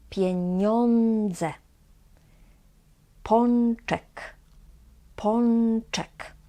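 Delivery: miesiące, pieniądze, pączek with ą said as "on"; n close to the palate in miesiące, pieniądze, pączek. Shown as a demonstration. Teacher gives examples before c, dz, ch, ą as on. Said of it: "it is also pronounced as".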